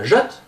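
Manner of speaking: "rất" with a short vowel between French A and "heure", rising sharply; A circonflexe vietnamien. Shown as a demonstration. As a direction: lift "rất" high on a short uh-like A. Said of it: "comme le E de heure". (« rất » montant, voyelle entre A et eu)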